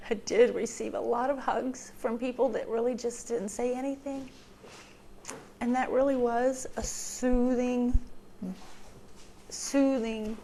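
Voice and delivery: real tears close, voice thinning; holding back tears. Real, not acted. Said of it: "now I'm gonna cry".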